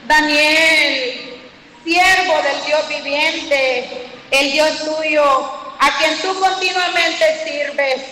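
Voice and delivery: slow, grieving king calling into the den; sad voice. Retold or imitated. A king calls sadly to Daniel in the den, slow and mournful. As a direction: call out slowly, like mourning a loved one. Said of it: "Con voz triste le dijo".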